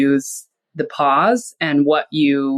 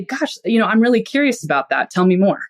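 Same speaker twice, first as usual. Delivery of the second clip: higher, eager and interested, leaning on curious; curious invitation; 4 semitones higher than usual. Shown as a demonstration. Inviting a venting friend to open up, curiously. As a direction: sound genuinely curious and invite more. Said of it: "is just to say".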